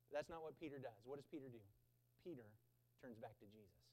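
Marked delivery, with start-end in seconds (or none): 2.2-3.8 much softer, lower delivery; the preacher drops his voice for the turning point; hushed reveal. Real, not acted. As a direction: let it land softly. Dramatic climax of the story.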